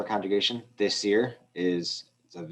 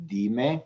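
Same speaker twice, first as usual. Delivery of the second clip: dime stressed on its first syllable, DI; DI-me, weight on the front. Shown as a demonstration. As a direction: say dime with DI stronger than me. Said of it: "di is still the stressed syllable".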